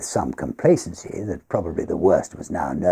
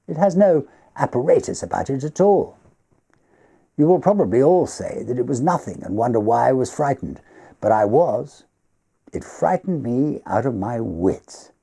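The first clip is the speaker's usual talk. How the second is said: lightly voiced host, higher, a touch of remembered fear; Everard's voice; 7 semitones higher than usual. Host admitting his old terror to the fireside guests, lightly higher.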